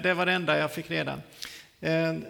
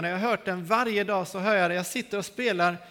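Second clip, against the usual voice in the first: ordinary talk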